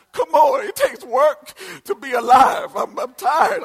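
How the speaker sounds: loud, high preacher's cry; preaching shout. Acted. Pastor shouts to the congregation about being tired. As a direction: belt it to the congregation.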